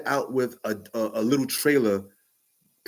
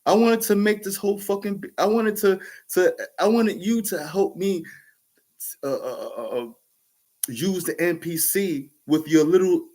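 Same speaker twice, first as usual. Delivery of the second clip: raised, pleading complaint to a friend; whining that he took over the beat; retold complaint; 4 semitones higher than usual. Producer friend made the whole beat, frustrated pleading. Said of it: "I was like / I was mad at the nigga".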